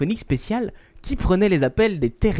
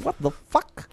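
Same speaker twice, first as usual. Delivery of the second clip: Anglais éméché; 8 semitones higher, 6 dB quieter than usual. Retold or imitated. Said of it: "les Anglais, après une bonne pinte".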